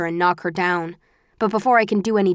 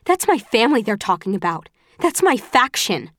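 angry; 3 semitones higher than usual. Acted. Angry defense of family.

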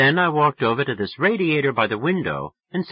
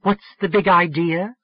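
put-on higher, sharp annoyed girlfriend; annoyed young woman; 8 semitones higher, 5 dB louder than usual. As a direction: snap at the drunk caller. Voices Sally annoyed.

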